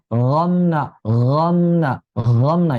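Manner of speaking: 'romna' with a throaty gh in place of r; swallowed ro. Shown as a demonstration. Teacher isolates second mistake, unread ro. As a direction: lose the tongue tip on 'romna'. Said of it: "romna-nya nggak kebaca".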